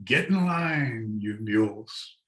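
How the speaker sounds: hint of the packer's call, half-voiced; mild imitated holler.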